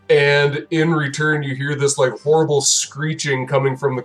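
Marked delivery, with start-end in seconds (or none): none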